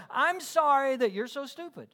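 sorry that's really blame; non-apology apology. Retold or imitated.

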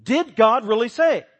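loud, high, slow sneering question; Satan's sneer. Acted. Preacher voicing Satan to skeptics, slow loud sneer. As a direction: draw it out like the devil. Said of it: "You sound like Satan".

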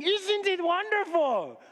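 high, slow, beaming gush; blissful delight. Acted. Smiling magus to the worried host, delighted. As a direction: gush with a smile, drawn out.

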